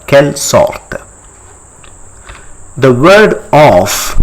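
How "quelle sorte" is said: "Quelle sorte" as kel sort, r sounded; French pronunciation. Shown as a demonstration. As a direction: model "Quelle sorte" with a released final t. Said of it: "It's almost sounds similar".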